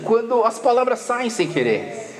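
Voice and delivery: usual speaking voice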